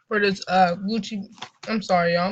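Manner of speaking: talking through a mouthful of donut; words muffled by food in mouth; mouth full. Real, not acted. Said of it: "I'm eating some goddamn donuts".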